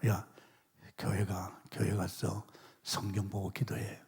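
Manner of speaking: softly retold divine command, slowed down; soft voice of God. God's call retold in testimony.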